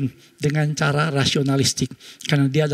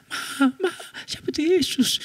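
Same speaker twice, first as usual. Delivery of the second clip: put-on higher child voice; a little child pressing her mother; child getting louder; 12 semitones higher, 4 dB quieter than usual. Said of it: "tambah keras suaranya". (suara anak yang makin keras)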